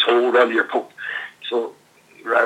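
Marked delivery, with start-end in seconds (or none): 0.0-0.9 a hint of Andre's deep rumble. Andre warning the group in the dark, in a deep voice. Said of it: "in a deep voice".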